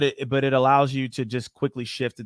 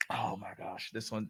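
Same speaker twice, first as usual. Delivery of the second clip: breathy whispered oh my gosh, under the breath; whispered aside; 15 dB quieter than usual. Real, not acted. Rep facing a tough question, whispering to herself. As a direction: drop to a whisper as if to yourself. Sighing to herself before answering.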